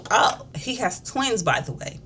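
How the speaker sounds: high, drawn-out fake-innocent announcement dropping to an aside; faux-casual reveal. Mistress blowing up the wife's spot, faux-casual. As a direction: imitate someone slyly letting a secret slip.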